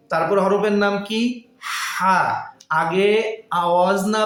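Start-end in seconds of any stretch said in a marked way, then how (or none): 1.6-2.2 "হা" from the middle of the throat, air first, then voice; throaty ha. Shown as a demonstration. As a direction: let breath lead into "হা". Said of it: "আগে হবে বাতাস". ("হা" গলার মাঝখান থেকে, আগে বাতাস পরে আওয়াজ)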